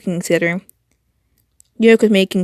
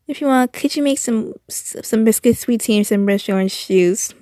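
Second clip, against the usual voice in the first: attempted purr; 2 semitones higher than usual. Shown as a demonstration. Reading the request again, adding a light purr. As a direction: soften the ask, a hint of purring. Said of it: "A bit of a purr followed".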